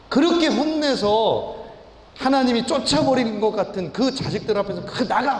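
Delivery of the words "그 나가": a hint of a furious father yelling; retold outburst, only lightly raised; mock angry shout. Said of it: "막 이렇게 소리 지르고". (화난 아버지 흉내, 가볍게 외침)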